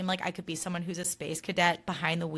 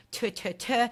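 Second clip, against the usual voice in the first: three dry spitting sounds; mock spitting; 3 semitones higher, slower than usual. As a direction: spit three times for luck. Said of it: "spitting three times".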